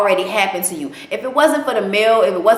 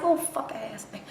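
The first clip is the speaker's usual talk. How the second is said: muttered aside; 14 dB quieter than usual. Retold or imitated.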